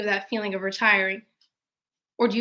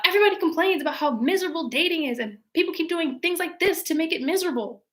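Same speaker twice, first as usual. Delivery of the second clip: fast, pitched-up aggrieved rant; whiny rant; 6 semitones higher, faster than usual. Retold or imitated. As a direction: rattle off the grievance quickly. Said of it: "And he's like".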